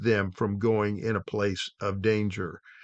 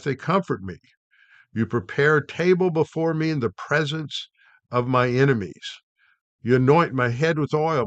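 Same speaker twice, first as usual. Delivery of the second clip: measured, solemn psalm reading, slightly raised; scripture recital; 2 semitones higher than usual. Acted. Preacher reciting Psalm twenty-three to the congregation, solemnly.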